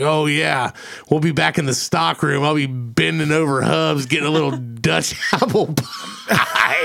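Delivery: mock lewd quote, laughing; laughing through quote. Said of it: "Dustin was like".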